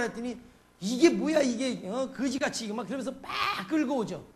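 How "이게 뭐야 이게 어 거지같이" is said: lightly acted exasperated mother; mock scolding. Mother dragging her dirty child home, mock scolding.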